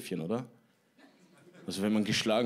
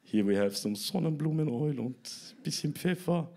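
higher-pitched mock TV chef; mock cooking-show voice in half English; hapless home cook; 6 semitones higher than usual. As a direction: parody a cooking host, rising higher at the end. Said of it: "Und du so".

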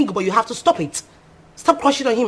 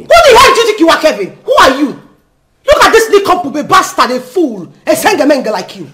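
furious yelling; 3 semitones higher, 5 dB louder than usual. Acted. Rose screaming insults at her husband's brother, furious. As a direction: scream abuse at the man who insulted you. Rose yells at Kevin in quarrel.

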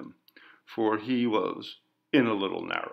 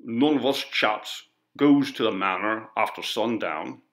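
lightly voiced rural working man; stolid, unmoved refusal; stubborn villager. Villager answers the coroner, stubborn and rustic. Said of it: "said Mister Runt".

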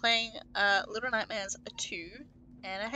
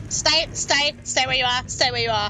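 yelling at enemies; 6 dB louder than usual. Real, not acted.

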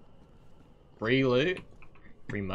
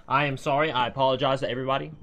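mock apology; 4 semitones higher, 5 dB louder, faster than usual.

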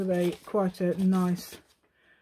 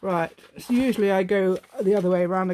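still a bit posh; 6 dB louder than usual. Acted. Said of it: "but I have gone to posh".

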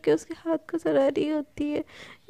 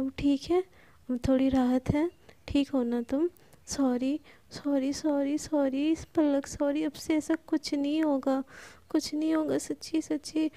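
tender apology; 4 dB quieter than usual. Acted. Sana icing her friend's hand and apologising, tender. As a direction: soothe gently, coaxing forgiveness.

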